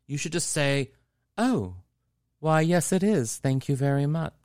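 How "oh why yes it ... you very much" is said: speech with flair. Shown as a demonstration. Host showing grocery shoppers how to reply, theatrical flair. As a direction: answer with theatrical flair, pitched up. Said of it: "adding a little flair to the way we speak".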